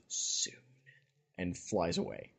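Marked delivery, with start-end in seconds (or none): 0.1-0.5 a drawn, barely audible "soon"; whispered. Retold or imitated. Avacyn leaving Mocker, a soft whispered "soon". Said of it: "whisper of".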